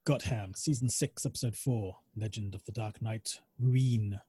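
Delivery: slow, deliberate title announcement; slow announcer read. Acted. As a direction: read it like a trailer voice. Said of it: "episode title read again".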